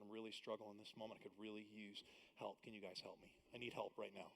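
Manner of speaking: hushed and confessional from the pulpit; quiet intimate preaching. Acted. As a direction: draw them close and speak softly about struggle.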